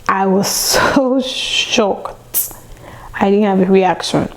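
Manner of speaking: slow whisper breaking into a laugh; whispered disbelief. Real, not acted. Telling listeners how stunned she was, whispered laugh.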